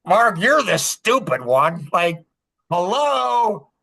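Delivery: sarcastic, rising to a drawn-out jeer; mocking self-rebuke. Scolding himself for missing the obvious, sarcastic. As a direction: knock on your own skull, teasingly.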